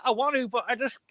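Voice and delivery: a hint of desperate holding it in; imitating Joey straining. Retelling Joey in Friends, lightly voiced strained whine. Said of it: "It's like".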